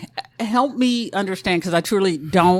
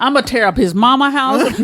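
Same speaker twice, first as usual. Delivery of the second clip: mock vengeful rant, raised pitch; acted angry ranting; 4 semitones higher than usual. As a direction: rant like a wronged girlfriend, playfully. Voices an enraged wronged girlfriend.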